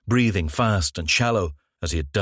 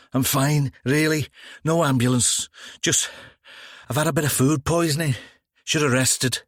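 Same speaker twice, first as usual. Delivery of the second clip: brushing off help; 6 semitones higher than usual. Acted. Embarrassed officer waves them off.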